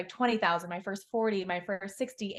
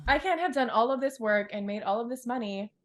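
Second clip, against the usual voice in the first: louder, hammed-up indignant customer; mock complaint; 3 semitones higher, 7 dB louder, slower than usual. She protests to life that success feels awful, mock outraged yell. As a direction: complain like demanding a refund. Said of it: "I'm like".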